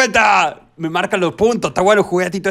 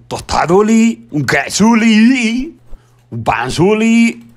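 cutesy singsong; much slower than usual. Pretend. Cutesy made-up food words.

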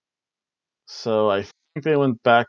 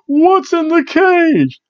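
much higher, slow, strange voice; drawn-out creepy chant; eerie catchphrase; 6 dB louder, much slower than usual. Retold or imitated. Quoting the cage catchphrase, a slow eerie high voice.

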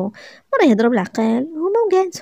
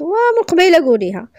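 mildly snapped, pitched higher; raised voice; 6 semitones higher, 4 dB louder than usual. A narrator's reading. Shopkeeper scolding a customer, raised voice. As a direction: raise the voice a touch, impatiently. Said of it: "واش مالك كتغوت عليا".

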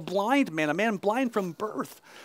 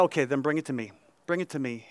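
lightly voiced Jesus; 6 semitones lower, 6 dB quieter, faster than usual. Jesus voiced in retold scene.

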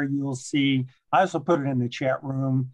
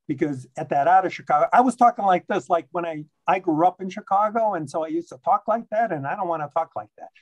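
rapid-fire talking; 4 semitones higher, faster than usual. Shown as a demonstration. Guest speaker to meeting, showing how rushed he once talked, very fast. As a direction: rush through it like a nervous talker. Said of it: "Very fast".

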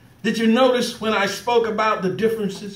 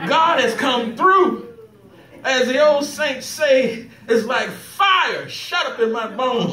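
joyful preaching build. Real, not acted. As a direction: preach it like fire in your bones. Preacher rising to joyful climax.

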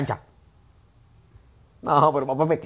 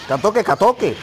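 high, loud repeated shout; yelled battle cry; 9 semitones higher, 8 dB louder, slower than usual. Real, not acted. Player echoing a cry mid-match, high yell. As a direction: holler the word twice.

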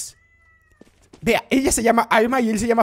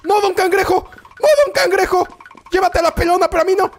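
higher, loud comic begging; mock pleading shout; 6 semitones higher, 3 dB louder than usual. Streamer begs don Cangrejo to take someone else. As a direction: plead with the monster in jest.

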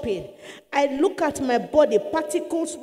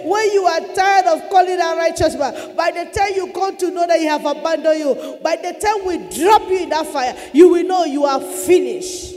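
raised, emphatic threatening voice; loud demon threat; 3 semitones higher, 4 dB louder than usual. Retold or imitated. Demon taunting the sufferer about the fire, loud threat. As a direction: build to a shouted final threat.

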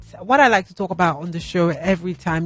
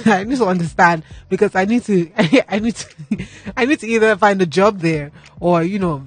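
laughing; 3 dB louder than usual. Real, not acted. Laughs through own joke.

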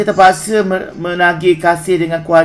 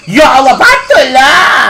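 high, loud, drawn-out cry; exclaiming realization; 7 semitones higher, 7 dB louder than usual. Real, not acted. Uncle reacting to the kids' chocolate quarrel, loud exclamation. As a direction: shout it out high, stretching the last word.

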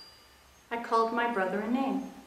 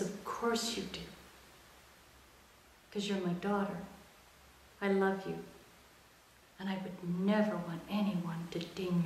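softer, hushed retelling of mom's words; a hint of a quiet, caring mom; mother's gentle voice; 5 dB quieter than usual. Mother comforting daughter on couch.

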